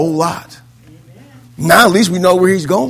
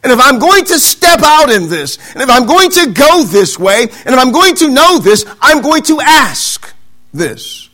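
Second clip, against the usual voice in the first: determined Thomas; 5 semitones higher, 3 dB louder than usual. Acted. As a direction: press the point as Thomas, drawing out the last line.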